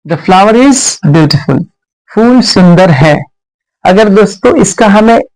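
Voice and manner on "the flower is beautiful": very slow, word by word; dictating to a class; slow dictation. Shown as a demonstration. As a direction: spell it out slowly for students. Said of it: "teacher dictating slowly".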